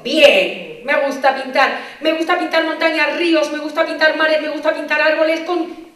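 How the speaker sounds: put-on a kid rattling off everything he loves to paint; eager child. Excited child thinking about painting.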